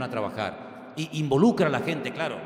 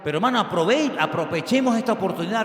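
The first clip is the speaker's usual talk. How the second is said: fervent exhortation; 5 semitones higher, 5 dB louder than usual. Real, not acted. Preacher exhorts congregation.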